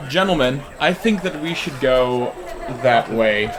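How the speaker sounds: slow, measured formal suggestion; mildly stilted, deliberate delivery; weird formal talk. Acted. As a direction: play at being a casual gentleman. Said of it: "why are you talking weird".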